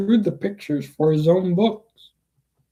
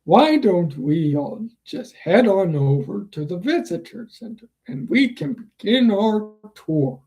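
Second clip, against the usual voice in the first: robot butler voice; 3 semitones higher than usual. Acted. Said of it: "I'm gonna quote the Mister Handy".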